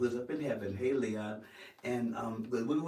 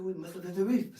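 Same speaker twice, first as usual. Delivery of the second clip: high-pitched Caribbean lilt, rising at the end; Caribbean accent; 9 semitones higher, 4 dB louder than usual. Retold or imitated. Actor echoes the ship's aide, trying a Caribbean accent. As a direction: copy the Bahamian accent, pitched up. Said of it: "I want it in a Caribbean accent".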